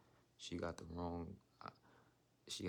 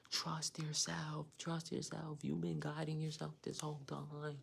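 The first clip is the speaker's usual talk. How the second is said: much higher, slow, louder angel voice; voicing the angels; 9 semitones higher, 5 dB louder, slower than usual. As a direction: call out like angels insisting in her ear. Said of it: "They're like".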